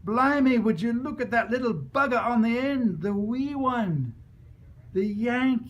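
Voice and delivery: loud, high astonished shout; a father shouting about the wee Yank; alarmed shout. Retold or imitated. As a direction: sound the alarm to the whole crowd. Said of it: "A father's voice sounded the national alarm".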